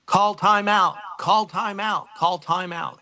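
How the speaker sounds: high-pitched mock sideline call, repeated; imitating Coach Fonts. Player mimicking coach calling timeout to ice him, distinctive high voice. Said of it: "I hear very distinct voice".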